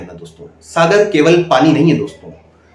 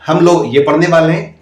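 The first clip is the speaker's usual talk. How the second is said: higher and louder, a teacher asking the class; loud classroom question; 3 semitones higher, 4 dB louder than usual. Retold or imitated. Mimicking a candidate's demo line to the class, loud and high. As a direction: call it out to a room of kids. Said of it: "ये मत बोलिए दोस्तों".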